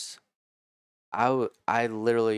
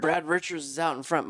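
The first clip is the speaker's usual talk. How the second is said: high-pitched track announcer call; race announcer; 8 semitones higher than usual. Retold or imitated. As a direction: imitate an announcer calling the leader. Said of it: "the guy who was the announcer".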